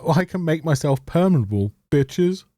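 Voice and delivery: lightly voiced smug teasing; smug taunt. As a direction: sneer it like a gloating villain. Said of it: "waving at them saying".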